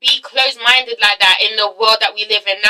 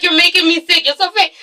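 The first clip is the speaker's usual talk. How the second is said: mock crying; 5 semitones higher than usual. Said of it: "She's like".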